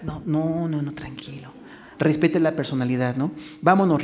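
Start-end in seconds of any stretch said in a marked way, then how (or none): 0.0-1.5 soft unvoiced hush; gently whispered comfort. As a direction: whisper no, no, tranquilo to calm her. Soothing a crying wife.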